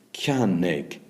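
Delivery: ceannig in two clear beats; teacher's demo of two-beat ceannig; two syllables. Shown as a demonstration. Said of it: "two syllables".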